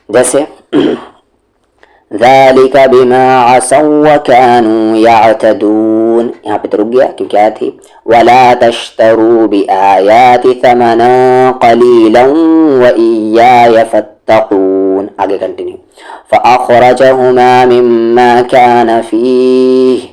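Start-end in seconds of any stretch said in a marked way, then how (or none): 2.1-6.3 slow, sustained measured chant; Quran recitation. Shown as a demonstration. Teacher reciting a verse as an example, measured chant. 8.0-15.1 slow, sustained measured chant; Quran recitation. Shown as a demonstration. Teacher reciting a verse as an example, measured chant. 16.3-20.0 slow, sustained measured chant; Quran recitation. Shown as a demonstration. Teacher reciting a verse as an example, measured chant.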